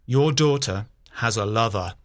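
low, sad prince's voice; understated sorrow, low voice. A narrator's reading. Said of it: "he said sadly".

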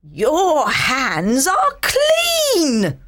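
slow, tearful angry shouting; furious mother scolding slowly; angry mum. Acted. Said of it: "His mother is angry".

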